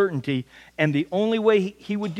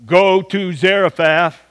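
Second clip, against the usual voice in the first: slow, louder booming command; booming voice of God; 6 dB louder, slower than usual. Retold or imitated. Preacher imitating God's voice to Elijah, slow louder boom. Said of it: "the Father's voice booming out".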